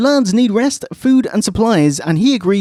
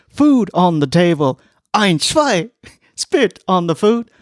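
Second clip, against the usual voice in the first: mock German guard; 2 semitones higher, slower than usual. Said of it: "And it's like".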